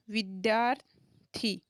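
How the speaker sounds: विद्यार्थी said slowly, every syllable drawn out; slowly sounding out a word for students; slow, drawn-out demo. Shown as a demonstration. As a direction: stretch out विद्यार्थी so students hear each sound. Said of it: "अब इस शब्द को बोल के देखो".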